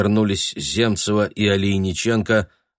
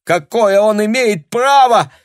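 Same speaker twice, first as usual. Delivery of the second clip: high, loud and slow outraged cry; indignant shout; 13 semitones higher, 8 dB louder than usual. A narrator's reading. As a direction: hurl the question in fury. Tanya's indignant outburst continues. (возмущённый крик)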